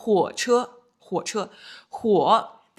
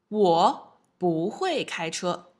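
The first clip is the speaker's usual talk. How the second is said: slow, careful example sentence, a bit louder; slow model sentence; 4 dB louder, slower than usual. Shown as a demonstration. Teacher modelling a sentence for students, slow and clear. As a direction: spell out each syllable for learners. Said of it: "For example".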